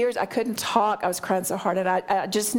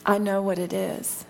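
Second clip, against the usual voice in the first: sweetest voice. Retold or imitated. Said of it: "in the sweetest voice".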